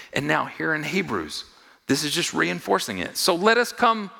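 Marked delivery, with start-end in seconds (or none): 3.2-4.1 bold proclamation. Acted. Reading the verse aloud.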